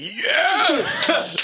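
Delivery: high, drawn-out gleeful cheer; over-the-top triumphant yes; Vince McMahon. Acted. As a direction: crow it like a delighted boss. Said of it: "Vince McMahon. I know he was like".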